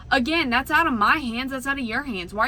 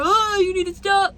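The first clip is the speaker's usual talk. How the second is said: mock yell; 8 semitones higher, 6 dB louder than usual. Quoting other driver.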